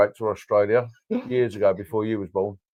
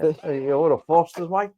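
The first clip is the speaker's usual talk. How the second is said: put-on stupid Australian accent; 5 semitones higher than usual. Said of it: "we just do stupid accents".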